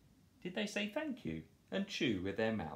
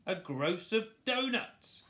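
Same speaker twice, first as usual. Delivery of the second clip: much higher, slow squeal; 13 semitones higher, 4 dB louder than usual. Acted. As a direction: squeal it like a piglet. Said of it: "squeals Horace".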